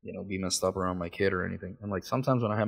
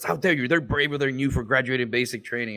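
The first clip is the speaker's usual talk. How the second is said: raised indignant imitation; mock outrage; 4 semitones higher than usual. Offended dude defending army privates, mock outrage. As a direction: protest hotly in a higher voice.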